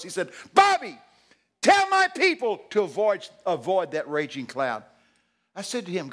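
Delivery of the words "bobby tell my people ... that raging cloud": high, loud urgent command easing on the last words; extreme urgency. Retold or imitated. Jesus warning the preacher about the cloud, extremely urgent. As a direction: cry out an urgent warning, then settle. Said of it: "extreme urgency in his voice".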